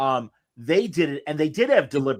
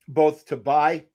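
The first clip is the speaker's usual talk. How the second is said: burping; slower than usual. Real, not acted. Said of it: "pardon me, I'm burping".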